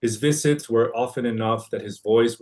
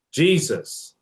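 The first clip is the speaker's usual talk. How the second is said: mild yell; 6 semitones higher than usual. Retold or imitated. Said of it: "I myself often yell".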